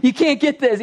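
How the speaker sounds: mildly hammed-up exasperation, rising in pitch; mock exasperated teacher. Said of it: "he's kind of exasperated".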